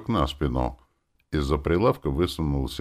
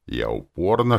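ordinary delivery

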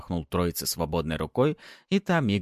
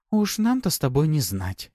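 higher, playful tease; giggling succubus; 9 semitones higher, 4 dB louder than usual. A narrator's reading. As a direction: giggle it knowingly. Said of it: "хихикнула суккуба".

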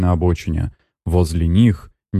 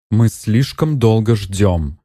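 slow, displeased complaint; 3 semitones higher, slower than usual. Acted. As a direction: drag it out, fed up with waiting. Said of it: "недовольно сказала". (недовольно, медленно)

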